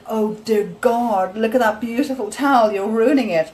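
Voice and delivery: hammed-up outrage at a ruined towel; mock horrified. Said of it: "And I was just like".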